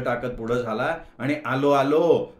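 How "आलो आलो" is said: loud call through the door. Acted. Gaju calls out to Shubha knocking at the door, loudly. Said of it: "असं ओरडत त्याने".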